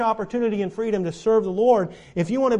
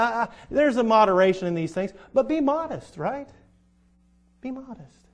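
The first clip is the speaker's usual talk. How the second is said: a touch higher, lightly voiced old college preacher; mild imitation of a preacher scolding ladies; retold old preacher; 4 semitones higher than usual. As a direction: echo the old preacher's folksy advice. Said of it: "and he said".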